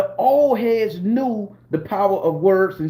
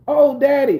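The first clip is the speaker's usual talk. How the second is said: high breathy mock moan of a woman; 6 semitones higher, 4 dB louder than usual. Mimicking a lover in bed with a high mock moan. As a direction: ham up a lover crying daddy.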